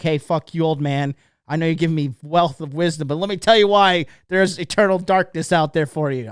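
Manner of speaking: acted-out rant at an old man; mock defiant retort. Imagined retort he held back.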